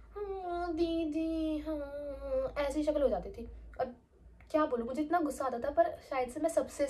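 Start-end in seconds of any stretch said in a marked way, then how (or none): 0.1-2.5 small, soft eager yes; a younger girl answering her senior didi, soft and meek; meek little girl. Retold or imitated.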